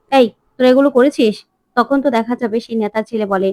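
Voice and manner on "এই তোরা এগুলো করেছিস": a touch of anger, a bit louder; lightly voiced officer snapping at the boys; mildly angry officer. Officer confronts the boys, mildly angry. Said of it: "officer রেগে যায় আর বলে".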